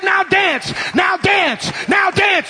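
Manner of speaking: high, insistent mock shout; retold command. Camp preacher ordering him to dance, high mock shout. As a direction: bark it repeatedly, imitating the preacher.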